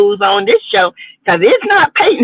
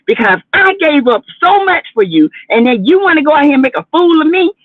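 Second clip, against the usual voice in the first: a raised, indignant mock wife, building toward the end; imitating Tisha; 4 semitones higher than usual. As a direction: play Tisha defending her marriage with mock pride. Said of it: "She wants people to think".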